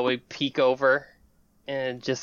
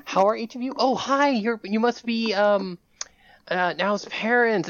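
bright greeting; 9 semitones higher, 4 dB louder than usual. Acted. Host greeting parents.

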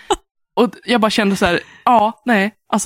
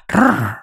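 mock growl; 3 semitones lower than usual. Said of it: "och då bara".

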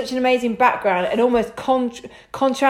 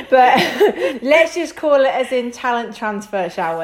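laughing; 2 semitones higher than usual. Real, not acted. Host jokes about retirement.

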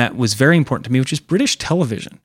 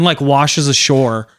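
ordinary delivery

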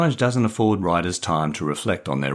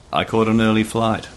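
calling out; 5 semitones higher, 4 dB louder than usual. Acted. Calling across the cabin.

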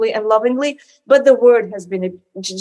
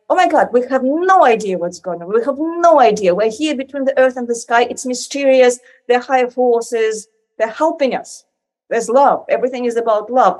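mildly acted awe and joy; awed, joyful wonder. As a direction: marvel humbly and happily. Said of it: "like, awe and joy and humility".

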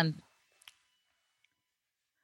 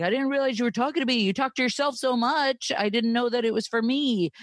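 husband voice; 6 semitones higher than usual. Retold or imitated. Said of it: "he's like".

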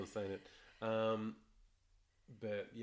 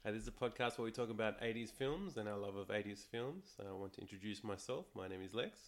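hoarse, croaky throat; talking through a croaky sore throat. Real, not acted. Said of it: "today I'm the one with the croaky voice".

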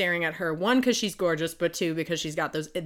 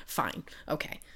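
lower, soft, whispered reluctant agreement; grudging whisper; 5 semitones lower, 9 dB quieter than usual. Retold or imitated. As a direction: give in with a tired whisper.

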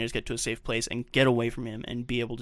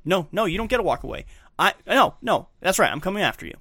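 high, raised-voice retold anger; angry; 7 semitones higher, 5 dB louder than usual. Drunk husband following wife as she walks away, angry. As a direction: act out an angry drunk refusing to back off. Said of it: "Angrier than before".

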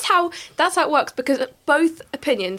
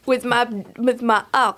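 mock French accent with a laugh; very bad French accent. Co-host finishing the French chimney sweep's line, bad French accent. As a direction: chime in with a silly French accent. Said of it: "very bad French accent".

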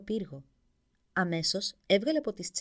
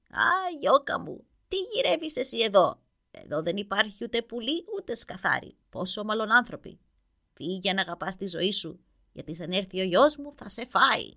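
put-on old witch; 5 dB louder than usual. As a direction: draw out the first words like a worried old hag. Old witch warns the prince.

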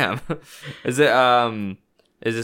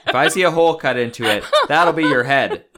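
stern parent; 2 semitones higher than usual. Retold or imitated. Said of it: "is what I'm saying".

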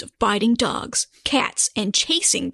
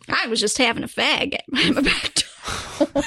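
mock British accent; 3 semitones higher than usual. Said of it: "my rendition of how that would go".

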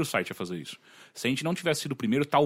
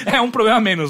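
laughing; 8 semitones higher, 8 dB louder than usual. Real, not acted. Laughing joke about black shirts.

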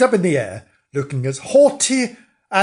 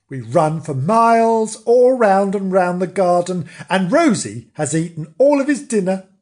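higher, exasperated complaint; mildly cross; 5 semitones higher, 4 dB louder than usual. Acted. Nobbs complaining about running for miles, mildly cross. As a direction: grumble with a touch of indignation. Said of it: "really quite cross".

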